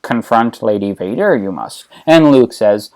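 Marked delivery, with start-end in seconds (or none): 0.0-1.9 Yoda. Acted. Old master cautioning his pupil, lightly voiced Yoda. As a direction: draw out the warning, then sink lower. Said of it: "But Yoda's like".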